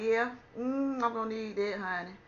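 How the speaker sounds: hamming up wanting the pills; eager yes. Retold or imitated. Eagerly accepting the Ativan.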